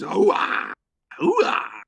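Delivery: high barked soldier cheer. Pretend. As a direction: shout it like a pumped-up marine. Military chant.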